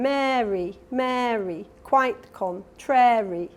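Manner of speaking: sing-song, slow nursery rhyme; reciting a nursery rhyme. Shown as a demonstration. Lecturer demonstrates the nursery rhyme: slow sing-song recital. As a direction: recite it slowly like a rhyme for kids. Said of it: "as someone says, the nursery rhyme".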